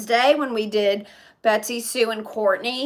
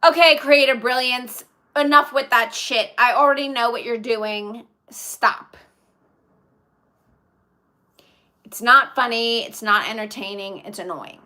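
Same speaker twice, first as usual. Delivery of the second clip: stern, louder telling-off of a chat troll; annoyed scolding; 3 dB louder than usual. Real, not acted. Streamer scolding a chat troll, firm and annoyed. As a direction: shut the troll down firmly.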